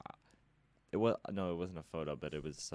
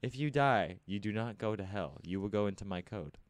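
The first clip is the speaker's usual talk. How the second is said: higher, louder evil robot; menacing robot; 4 semitones higher, 6 dB louder than usual. Pretend. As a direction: threaten like a machine overlord.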